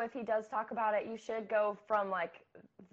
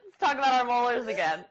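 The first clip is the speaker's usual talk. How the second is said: laughing and a bit louder; 2 semitones higher, 5 dB louder than usual. Real, not acted. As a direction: say it through a laugh. Joking through laughter.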